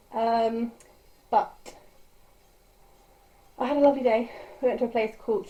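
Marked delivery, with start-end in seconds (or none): 3.6-5.5 breathless after a workout; out of breath. Real, not acted. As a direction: talk while catching breath. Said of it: "I'm out of breath".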